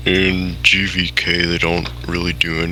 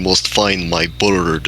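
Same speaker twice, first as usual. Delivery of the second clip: slow, heavy mock Russian accent; imitating a bad movie villain's Russian accent; slower than usual. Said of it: "he got a terrible Russian accent".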